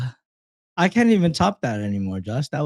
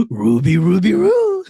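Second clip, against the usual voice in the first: louder mock Scooby-Doo call, jumping up on "Roo"; 4 dB louder than usual. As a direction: bark out "Ruby, Ruby, Roo" like a cartoon dog. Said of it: "Roro Shaggy".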